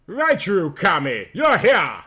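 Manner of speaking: light up at seeing her friend; exclaiming. Acted. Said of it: "Yuki exclaimed".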